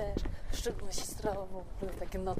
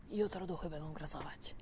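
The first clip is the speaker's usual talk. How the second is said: spooky whisper; 5 semitones lower, 6 dB quieter than usual. Real, not acted. Spooky ghost talk to child.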